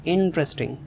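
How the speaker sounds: "इंटरेस्टिंग" with the weight on "इं"; stress on I. Shown as a demonstration. Teacher models "इंटरेस्टिंग", stress on the opening "इं". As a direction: lean on the first syllable of "इंटरेस्टिंग". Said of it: "आई पर stress है".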